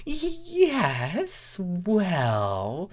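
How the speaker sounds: high stammering pony voice; flustered pony. A narrator's reading. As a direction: stumble over it nervously. Starlight flustered.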